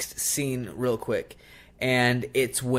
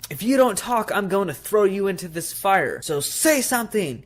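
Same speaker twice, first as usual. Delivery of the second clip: higher, louder mock threat; threatening demand; 7 semitones higher, 4 dB louder than usual. Karen threatens the doll by the fireplace, high mock menace. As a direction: threaten the doll over the fire. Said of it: "she goes".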